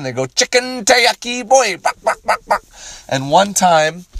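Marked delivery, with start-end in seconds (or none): 0.3-1.8 put-on high-pitched caricatured Asian accent; hammed-up high Asian-accented call; mock Asian accent. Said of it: "offensive accent, but they go".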